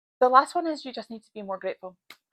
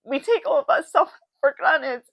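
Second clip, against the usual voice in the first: getting emotional; 4 semitones higher, 4 dB louder than usual. Real, not acted. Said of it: "this makes me quite emotional".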